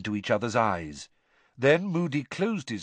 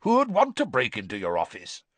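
growled; 5 semitones higher, faster than usual. A narrator's reading. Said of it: "growled Moody".

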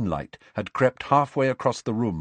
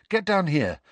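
higher call up to the rafters; 9 semitones higher than usual. A narrator's reading. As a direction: call up to her. Calling up to owl.

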